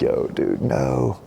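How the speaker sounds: whispered start breaking into a high no; a half-acted sob from a guilty man; imitating Adam weeping. Husband weeping after the fall, mock sobbing no. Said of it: "like, weeping".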